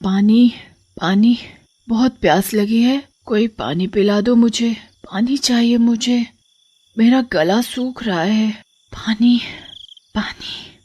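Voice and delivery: thirsty murmuring in sleep; sleep mumbling. Acted. Sleeping wife begs for water, mumbling thirstily. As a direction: mumble drowsily with pauses, pleading for a drink. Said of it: "नींद में ही पानी पानी बड़बड़ाती रहती है".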